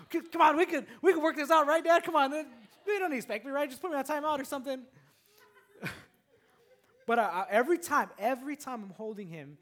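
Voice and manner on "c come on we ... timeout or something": put-on high, loud kid voice, laughing through it; son bargaining. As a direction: play a kid pleading his way out. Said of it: "he'll say".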